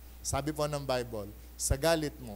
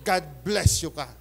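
mock sweet blessing; 5 dB louder than usual. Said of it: "Yang si Chris na yan".

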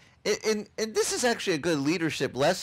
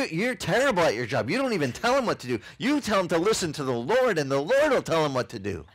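higher, louder mocking voice of a pushy churchgoer; mocking critic; 4 semitones higher, 4 dB louder than usual. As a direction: play the know-it-all critic, lightly mocking. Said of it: "they're like".

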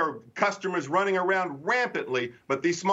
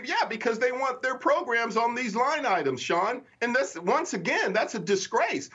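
emotional; 7 semitones higher than usual. Real, not acted. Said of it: "I get emotional about this".

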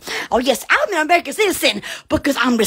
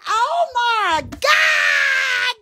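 mock shock; 6 semitones higher, much slower than usual. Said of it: "And I was like".

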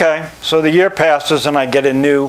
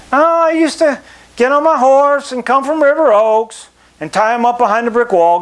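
lightly voiced old member, higher and fond; a hint of a chatty old-timer recalling horse days; old timer reminiscing; 9 semitones higher than usual.

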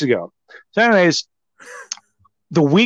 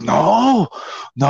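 feigned innocence; 5 semitones higher than usual. Retold or imitated. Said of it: "He's acting funny".

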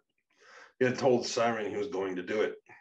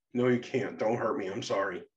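frightened pleading; 3 semitones higher, 4 dB louder than usual. Acted. Payne begs Becca not to hurt him, frightened.

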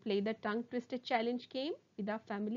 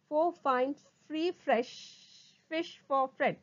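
deliberate words with a pause midway; slow tongue twister; slower than usual. Shown as a demonstration. Teacher repeats the twister for students, slowly. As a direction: keep every word separate. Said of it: "first try saying them slowly".

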